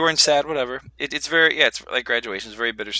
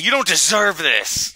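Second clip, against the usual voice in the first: mock solemn; 7 semitones higher, 3 dB louder, slower than usual. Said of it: "and you say".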